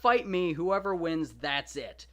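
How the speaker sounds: high, loud bold challenge; eager Hector. Retold or imitated. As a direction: call out the offer like a fearless champion. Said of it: "It's like".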